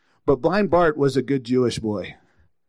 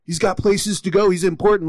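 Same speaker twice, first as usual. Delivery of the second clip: higher-pitched mock hushing of a pest; shushing; 5 semitones higher than usual. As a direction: imitate officious followers shooing someone away. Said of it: "they kind of tried to silence him".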